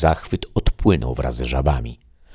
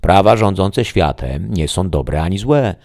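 higher, louder, slowing calm pronouncement; the voice answering; 5 semitones higher, 5 dB louder than usual. Acted. The voice answers the shadow, raised and declaring. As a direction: state it as a law of nature. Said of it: "odparł głos".

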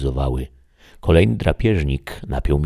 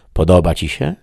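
lightly raised questioning voice; the voice speaking; 3 semitones higher, 6 dB louder than usual. Acted. The unseen voice asks the shadow, lightly voiced. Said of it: "przemówił głos".

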